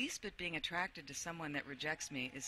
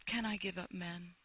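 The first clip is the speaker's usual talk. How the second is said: dramatic reading. Acted. Reads dramatic passage aloud.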